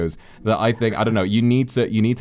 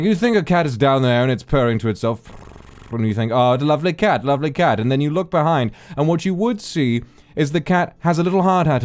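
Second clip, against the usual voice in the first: higher, louder posh English delivery; lightly hammed posh British; 6 semitones higher, 4 dB louder than usual. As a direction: play the British comic's plummy whimsy. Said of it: "he's got this really great posh voice".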